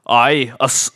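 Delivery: brief Scottish false start; Scottish accent. Pretend. Host asked to repeat his phrase, Scottish accent. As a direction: begin in Scottish, then falter. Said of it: "Say it again".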